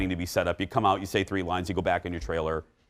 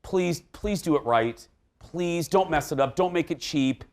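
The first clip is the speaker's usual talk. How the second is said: pleading; 3 semitones higher than usual. Real, not acted. Host begging filmmakers on behalf of a singer's fans, pleading. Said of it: "can I beg on behalf".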